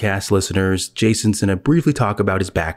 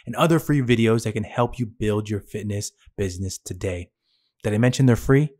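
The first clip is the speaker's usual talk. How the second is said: scripted podcast ad read, slightly higher and softer; promo read; 3 semitones higher, 4 dB quieter than usual. Acted. Host pointing fitness trainers to free resources, promo read. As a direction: read it as a host's resource plug.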